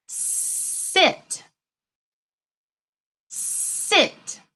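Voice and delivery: "Sit" unvoiced, hissing S drawn out; whispered word. Shown as a demonstration. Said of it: "do three words five times".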